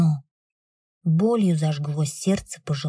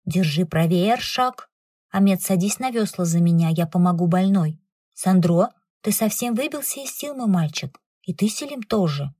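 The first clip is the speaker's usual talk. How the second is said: imperious command. Acted. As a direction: take charge of the crew firmly. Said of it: "властный приказ".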